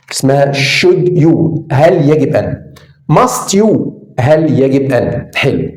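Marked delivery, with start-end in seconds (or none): 0.1-1.6 "should you" slowly, l silent, said shud you; drawn-out "should you" with no l sound. Shown as a demonstration. Teacher showing the class "should you" has a silent l. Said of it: "ال اللي هنا silent لا تنطق".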